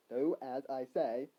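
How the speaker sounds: a hint of a mysterious voice, slow and low. Voice in the hero's head giving orders, slow and low.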